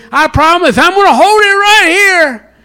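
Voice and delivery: loud, high mock-sweet promise; Lucy promising. Lucy promising Charlie Brown she'll hold the ball, mock-sweet. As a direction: play Lucy luring him in, lightly voiced. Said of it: "Lucy puts it down and says".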